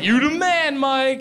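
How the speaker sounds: a high, cheering buddy shout-out; hyped-up sidekick. Retold or imitated. A brother hyping Mike up in his high cheer voice. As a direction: pump him up like an eager fan. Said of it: "He's never like".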